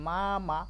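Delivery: "মা, মা" in two distinct beats; syllable by syllable. Shown as a demonstration. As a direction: open the mouth separately for each "মা". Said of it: "মানে দুইবার বলছেন".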